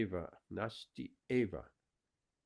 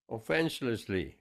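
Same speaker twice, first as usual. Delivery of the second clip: "Offenselessly" picked out and said louder, falling; stress on offenselessly; 5 dB louder than usual. Shown as a demonstration. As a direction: hold up the word "Offenselessly" for the class to consider. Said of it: "I mean, what does that mean?".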